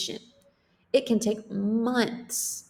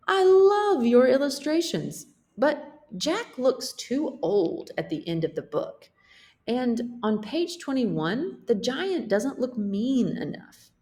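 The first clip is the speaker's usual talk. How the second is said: louder, higher editor voice; the editor giving gentle feedback, in a raised voice; 6 semitones higher, 3 dB louder than usual. Acted. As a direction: speak as the pleased but firm editor. Editor character speaks.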